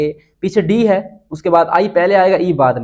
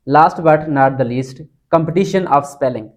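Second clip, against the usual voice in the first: dramatic slow announcement; much slower than usual. Acted. Announcing final tip.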